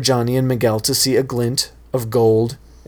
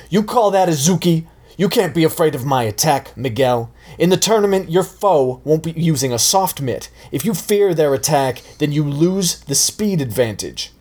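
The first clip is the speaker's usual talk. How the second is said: scolding sensei; 5 semitones higher than usual. Acted. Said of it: "Johnny shouted".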